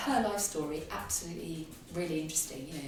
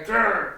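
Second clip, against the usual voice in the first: mock growl; 3 semitones higher, 7 dB louder than usual. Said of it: "and I go".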